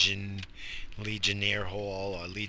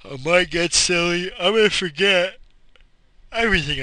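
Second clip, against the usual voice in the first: loud, higher goofy voice; exaggerated silly cartoonish tone; 8 semitones higher, 9 dB louder than usual. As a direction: play it dopey and loud.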